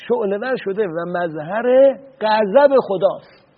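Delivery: stern rebuke. Retold or imitated. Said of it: "توبیخش کردم".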